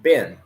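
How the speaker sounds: bin with a short, lax i; reading the short i word. Shown as a demonstration. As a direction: clip the vowel in bin short. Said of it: "So here we have".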